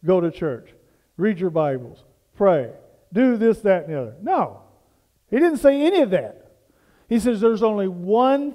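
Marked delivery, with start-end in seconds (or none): 0.1-4.2 lower, dismissive list of chores; mock religious checklist. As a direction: rattle off the rules you think he said. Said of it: "Jesus said".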